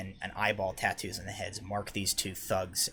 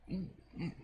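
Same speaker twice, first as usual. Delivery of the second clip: soft, higher-pitched humming mm; small quiet "mm, mm" in character; wordless mm; 8 semitones higher, 9 dB quieter than usual. Acted. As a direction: hum it softly as a reaction. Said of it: "kind of goes".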